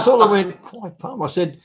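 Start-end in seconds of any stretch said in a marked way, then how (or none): 0.6-1.2 puzzled laughing question. Retold or imitated. Confused reply.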